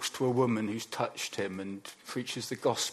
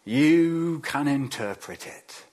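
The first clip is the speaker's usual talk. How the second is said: commanding Pharaoh; 6 dB louder than usual. Retold or imitated. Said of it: "Pharaoh speaks to him".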